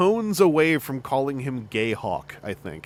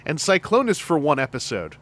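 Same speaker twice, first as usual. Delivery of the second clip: mock Albertan; 2 semitones higher than usual. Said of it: "Griff saying".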